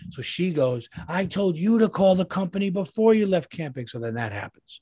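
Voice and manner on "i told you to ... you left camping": mimicking scolding wife.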